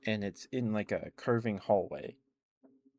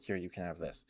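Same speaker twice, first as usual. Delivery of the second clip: softer, offhand acted quote; nonchalant; 2 semitones lower, 6 dB quieter than usual. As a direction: hand it over like it's nothing, quietly. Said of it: "kind of, like, nonchalantly".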